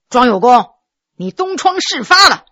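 a touch of stern gravity; stern face. Acted. Le Min scaring the scholar, mildly stern. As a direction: announce it coldly to scare him. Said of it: "他把脸儿一板说".

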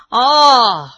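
scornful chuckle; cold laugh. Acted. 老人冷笑着回应罗二爷. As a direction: laugh him off coldly. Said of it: "冷笑着说".

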